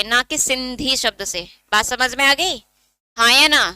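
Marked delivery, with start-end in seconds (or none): 0.0-1.4 सिंधी stretched slowly to mark the wrong word; stress on सिंधी. Shown as a demonstration. Teacher warning students off the wrong answer, सिंधी drawn out. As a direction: draw out सिंधी to set it apart.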